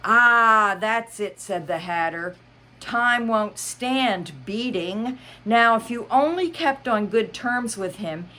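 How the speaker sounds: high, theatrical Hatter; Mad Hatter voice. Acted. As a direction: play the Hatter big and fussy. Hatter speaking.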